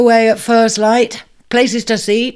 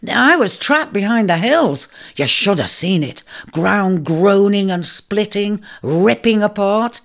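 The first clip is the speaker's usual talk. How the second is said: vivid dramatic telling; 4 semitones higher, 3 dB louder than usual. Acted. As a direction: paint the catastrophe for him. Ram recounts earthquake vividly.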